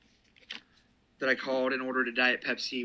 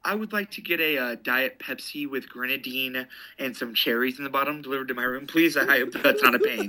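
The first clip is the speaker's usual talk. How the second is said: polite order, lifting at the end into a laugh; lightly put-on businessman ordering room service; would-be businessman. Shown as a demonstration. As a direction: play at being a formal grown-up caller. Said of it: "tried to sound like I was a businessman".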